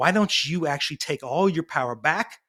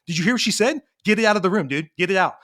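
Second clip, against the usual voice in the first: heated; 4 semitones higher, faster than usual. Retold or imitated. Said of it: "in this heated space with Abby".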